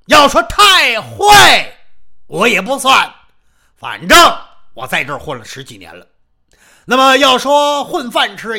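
a loud, boomy big man who talks as if down a barrel; booming muffled voice. Acted. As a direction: Xiong Rengang challenges Xiao Peng in a big booming voice. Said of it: "这熊仁刚一说话是瓮声瓮气".

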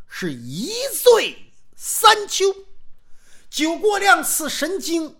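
slow, loud chanted verse about wine; recited storyteller verse. Acted. Storyteller recites a verse on wine to the audience, slow and loud. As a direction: draw out each line like a storyteller's poem.

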